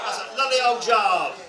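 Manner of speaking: loud, broad Norfolk praise; Norfolk phrase. Shown as a demonstration. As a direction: boom it out the Norfolk way. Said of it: "Take a seat, sir".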